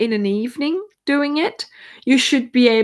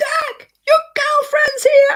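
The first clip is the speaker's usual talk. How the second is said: mock, very high-pitched shout; 3 dB louder than usual. Recounting shouting at dirk from the desk, retelling a shout. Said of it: "I shouted at Dirk".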